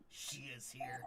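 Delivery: hushed menacing whisper. Acted. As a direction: breathe it close to the face. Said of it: "sniffs you a little bit and goes".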